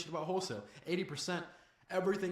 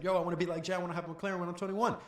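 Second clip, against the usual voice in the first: put-on eager teenage kid with a slightly raised voice; high-toned kid; 3 semitones higher, faster than usual. Sixteen-year-old telling a coach his dreams, high-toned kid. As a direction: lightly mimic an over-keen young beginner. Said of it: "with a high-ass tonality in their voice".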